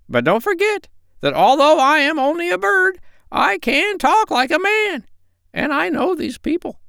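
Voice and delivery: very high squawky parrot; a proud, cheeky parrot. Acted.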